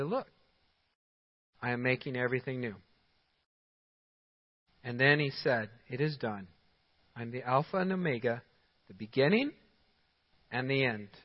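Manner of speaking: low, soft, measured recitation; scripture reading. A narrator's reading. Preacher reading the words from the throne, low solemn reading.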